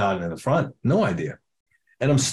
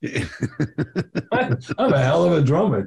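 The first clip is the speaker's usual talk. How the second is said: laughing brag; slower than usual. Retold or imitated. Bragging while high, laughing.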